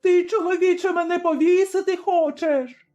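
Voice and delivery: very high, terrified squeal; shriek. A narrator's reading. Tavern keeper shrieks at Zaruba in terror. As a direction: shriek in horror at the noose. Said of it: "заверещала".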